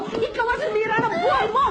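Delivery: high shout ending hard on mo; tearful shouted accusation. Acted. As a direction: yell it again, punching mo. Repeated accusation. (sigaw na diin sa mo)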